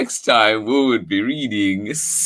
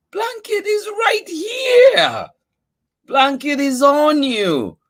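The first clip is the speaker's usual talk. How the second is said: high, loud, slow cry of joy; excited discovery; 4 dB louder than usual. Acted. Charlie tells Mouse Blanket is on him, high excited shout. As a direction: shout it out like you've found a treasure.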